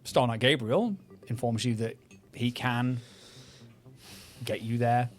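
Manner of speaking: measured scene setting over music; game master narration. Acted. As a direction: set the scene dramatically.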